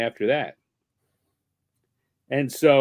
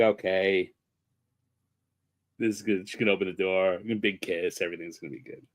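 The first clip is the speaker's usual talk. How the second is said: hushed inner thought; 7 semitones lower, 6 dB quieter than usual. Retold or imitated.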